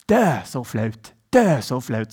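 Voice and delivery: a friend from Kristiansand groaning in Sørlandet dialect. Retold or imitated. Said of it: "sier han på sånn sørlandsdialekt". (sørlandsdialekt, lett imitert)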